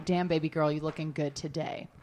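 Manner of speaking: mock whisper. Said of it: "whispered in my ear".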